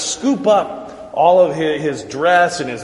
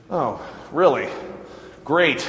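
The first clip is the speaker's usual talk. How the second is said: indignant; 4 dB quieter than usual. Retold or imitated. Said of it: "he's a little indignant".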